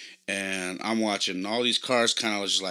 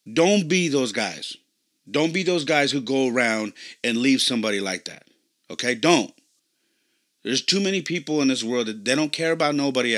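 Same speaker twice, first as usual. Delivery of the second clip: put-on louder, firm dad giving his kids a life lesson; fatherly lecture; 3 semitones higher, 5 dB louder than usual. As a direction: lay down the family rule, loud and earnest. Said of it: "I got back in the car and I said".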